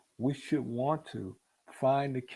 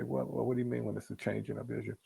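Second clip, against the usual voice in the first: quick, quieter doubtful question from a listener; puzzled listener; 7 dB quieter, faster than usual. Retold or imitated. Preacher voicing a congregant who questions her, quick and puzzled. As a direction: rattle it off like someone who doesn't follow. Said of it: "You say".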